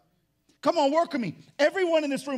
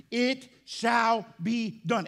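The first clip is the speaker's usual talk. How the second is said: "It shall be done" very slow, each word separate; firm declaration; much slower than usual. Shown as a demonstration. Preacher rejecting mere hope, "It shall be done" slow and weighty. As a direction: land squarely on every word of "It shall be done".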